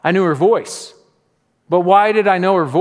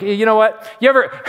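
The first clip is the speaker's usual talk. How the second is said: higher-pitched sitcom bit, lightly played; Seinfeld-style griping; 5 semitones higher than usual. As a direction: launch into a mock observational complaint. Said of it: "sounds like a Seinfeld episode".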